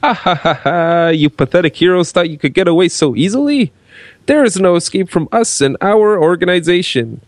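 hammy villain voice, gloating; evil henchman taunting his captives. Acted.

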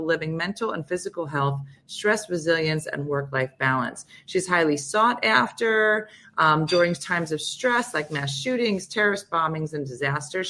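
lively radio host reading a bio; guest introduction read. Real, not acted. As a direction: introduce the expert with measured emphasis on her credentials. Reads the guest's biography.

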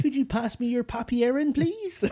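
high, laughing officer request; jokey officer asking for papers; mock German officer. Host playing the German officer asking for papers, laughing. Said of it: "Hello, we are here from the Gestapo".

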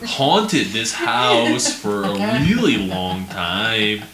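drawn-out, hammy creepy narrator; mock a silly spooky YouTube narrator; goofy narrator voice. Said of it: "he always had this really goofy voice".

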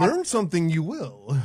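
lightly voiced Yoda-style sage; slow, playful pronouncement; a hint of a Jedi master, drawn out; mock wise master. Inverted Yoda-style phrasing.

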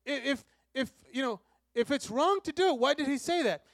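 high, loud mock voice of a puzzled crowd; questioning crowd. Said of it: "the people that are talking to Jesus are saying".

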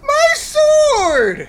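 high anguished scream. Acted. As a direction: wail it out loud and high. Acted sketch, screaming.

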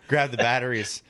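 puffing after a sprint; breathless, still recovering air; out of breath. Real, not acted. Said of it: "I'm a little out of breath".

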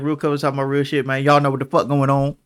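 talking through a grill; words round a mouth grill; wearing teeth grill. Real, not acted. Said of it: "I got my grill in today".

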